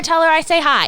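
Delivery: motherly voice. Acted. Ma Tucker parting words.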